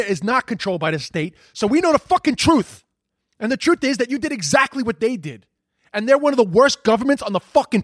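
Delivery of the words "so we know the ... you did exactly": furious, voice pitched up; angry outburst. Real, not acted. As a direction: spit it out in rising fury. Angry rant at the president.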